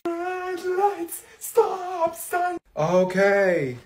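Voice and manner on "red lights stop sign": high voice. Acted. Pretend driving voice.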